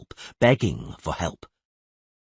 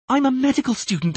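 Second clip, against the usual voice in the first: I'm a medical student shrieked high and loud; screamed; 4 dB louder, faster than usual. Acted. Student insisting she must help, screaming. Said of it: "was screaming hysterically".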